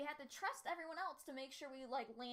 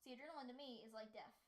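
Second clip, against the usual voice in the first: whisper; 6 dB quieter, faster than usual. Real, not acted. Whispered aside.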